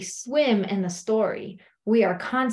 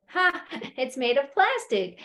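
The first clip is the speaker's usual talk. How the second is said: relieved laugh; 4 semitones higher than usual. Acted. Friend discovers snake is plastic.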